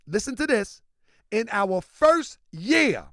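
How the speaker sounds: slow, deliberate reading with punched key words; emphatic read-aloud. Real, not acted. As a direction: read it out slowly, hammering the key figures. Reads statement with slow emphasis.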